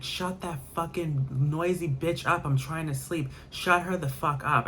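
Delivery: imitating an annoyed roommate yelling; retold angry yelling. Roommate yelling at the nurse to shut him up, mock angry yell. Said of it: "He was screaming".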